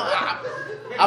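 ordinary talk

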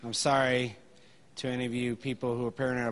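talking with gum in mouth; words around a wad of gum; chewing gum. Real, not acted. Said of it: "I have gum in my mouth".

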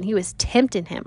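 a light Southern twang; slipping into Southern. Real, not acted. Teacher scoffing at the lawyer, slipping slightly Southern. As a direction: let a hint of Southern accent creep in. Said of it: "I'm getting Southern".

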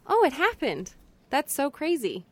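high, stunned "what?"; shocked disbelief. Retold or imitated. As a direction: sound floored by the news. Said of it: "it was like".

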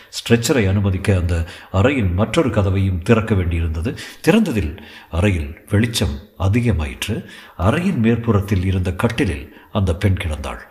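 measured, even storytelling read; story narration. A narrator's reading. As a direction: read the thriller steadily to listeners. Reads the novel aloud.

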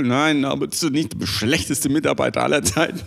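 laughing inner voice. Acted. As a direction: tease yourself through a laugh. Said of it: "Innerer Monolog".

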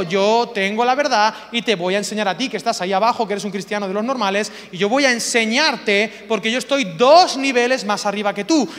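loud, self-important pronouncement; superior teacher. Acted. Preacher mocking those who teach from above, condescending. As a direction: lecture down to an inferior. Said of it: "el que enseña desde aquí arriba diciendo".

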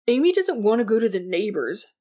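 seethe through the words; seething anger. Acted. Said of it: "Jordan said in a seething voice".

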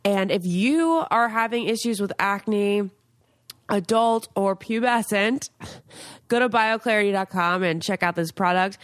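upbeat sponsor read. Acted. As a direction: sell it like a host ad. Sponsor read for acne product.

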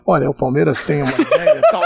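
imitated intonation switch. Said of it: "ele mudava a entonação".

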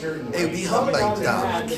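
ordinary talk, nothing marked

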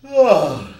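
big loud real yawn. Real, not acted. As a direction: let out a huge groaning yawn. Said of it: "I really thought that you were yawning".

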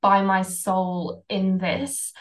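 slow, steady reassurance; calm self-talk. Shown as a demonstration. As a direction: soothe yourself slowly. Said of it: "counter argument to that fear voice".

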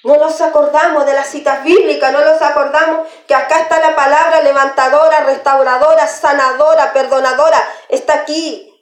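emphatic, driving sermon delivery; preaching. Acted. Preacher reminding the congregation of the restoring Word, preaching. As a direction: hammer out each item of the list.

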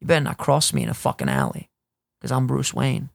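low, menacing vigilante growl; a lightly voiced, low Batman threat. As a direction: warn them off like a caped vigilante. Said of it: "like Batman in the Gotham".

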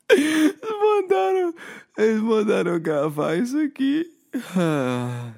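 high-pitched helpless laughing fit; giggling uncontrollably, laughing through pain; laughing gas. Real, not acted. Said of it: "Gás do riso". (rindo sem parar com gás do riso)

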